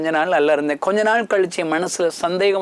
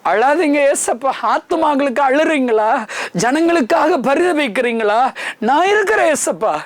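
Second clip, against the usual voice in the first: tender pleading; 7 semitones higher than usual. Acted. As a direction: comfort a weeping Jesus. Pleading directly to Jesus. (இயேசுவை ஆறுதல்படுத்தும் உருக்கமான வேண்டுதல்)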